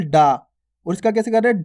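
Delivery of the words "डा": डा with no puff of breath; simple डा. Shown as a demonstration. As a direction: say a simple, unaspirated डा. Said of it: "simple". (डा सीधा, बिना ज़ोर के)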